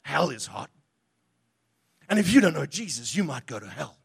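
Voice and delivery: lightly voiced pushy young evangelist, dropping low on hell; hammed-up zealot warning a stranger about hell; mock street evangelist. Preacher mocking his younger self, mild zealous warning. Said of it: "'Cause I would say".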